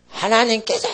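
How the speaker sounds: high, strained proclamation; mock prophetic cry. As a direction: imitate a minister crying out a prophecy. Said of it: "크게 외칩니다".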